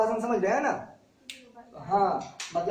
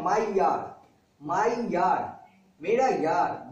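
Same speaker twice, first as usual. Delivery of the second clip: माई यार said with weight on माई, falling at the end; sound play on the word; 3 semitones lower, much slower than usual. Shown as a demonstration. Teacher linking मायर to माई यार for the class. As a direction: lean on माई, then yार, like a pun. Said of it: "देखिए sound कैसा आ रहा है".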